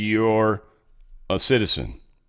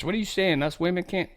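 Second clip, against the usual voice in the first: higher, softer imitation of offended women; mock indignant women; 7 semitones higher, 6 dB quieter than usual. Host voicing women pissed at Clinton, mock indignant questioning. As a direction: pitch it up as women questioning her. Voices angry women's reaction.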